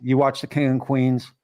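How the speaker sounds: usual speaking voice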